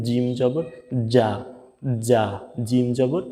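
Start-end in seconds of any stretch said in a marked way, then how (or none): 1.1-2.2 যা said firmly, as a hard j in jam; Arabic jim in যা, firm and hard; hard jim sound. Shown as a demonstration. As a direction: press the j of যা out strongly. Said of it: "শক্ত করে বলতে হবে".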